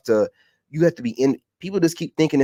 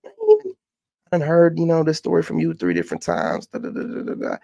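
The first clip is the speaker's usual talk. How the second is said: a sneering imitation of a nagging caller; mocking her way of talking; 2 semitones higher than usual. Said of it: "Who talks like that?".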